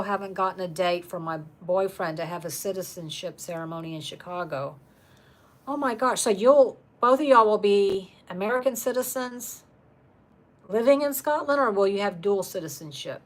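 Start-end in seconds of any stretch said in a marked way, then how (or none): 5.7-13.2 louder and higher, thrilled; excited. Real, not acted. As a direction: burst out with happy excitement. Excited about viewer's news.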